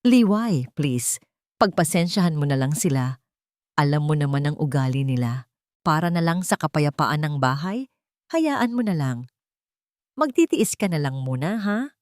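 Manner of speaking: a gentle plea to his wife; asking her to bear it, softly; pleading softly. Acted. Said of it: "may pagsusumamo". (mahinahong pakiusap)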